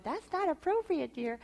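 high, prim reproach; prim correction. Retold or imitated. Wife reining in her husband, mildly prim. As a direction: correct him like a proper schoolmarm. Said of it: "until I said".

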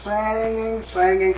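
slow, sustained chant-like repetition; drawn-out singsong. Retold or imitated. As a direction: stretch each word like a held note. Mimics boy endlessly singing.

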